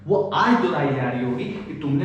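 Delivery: high incredulous rant; mock outrage. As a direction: sound shocked at the absurdity. (बहुत ऊँची आवाज़ में नकली हैरानी)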